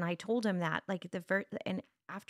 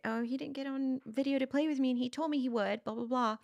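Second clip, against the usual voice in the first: put-on child complaining; 6 semitones higher than usual. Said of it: "And he's like".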